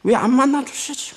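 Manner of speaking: high-pitched mock grumble; put-on puzzled whine; frowning complaint. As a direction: imitate a believer fretting with a frown. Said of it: "너무 이렇게 인상 찌푸리고 막".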